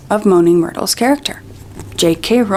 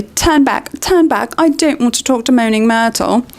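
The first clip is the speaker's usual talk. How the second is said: urgent Hermione; 3 semitones higher than usual. Acted.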